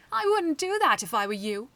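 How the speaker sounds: loud villain's threat; threatening. Acted. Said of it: "he threatened".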